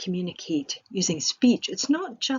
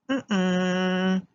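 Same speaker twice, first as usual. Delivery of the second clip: negating hum; 4 dB louder than usual. Shown as a demonstration. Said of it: "We've got laughing".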